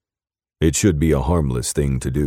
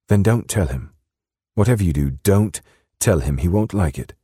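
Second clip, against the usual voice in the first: high, urgent British woman's warning; British accent, pitched up and insistent; 6 semitones higher, 3 dB louder than usual. A narrator's reading. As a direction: warn him firmly in a British accent. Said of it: "in her soft British accent".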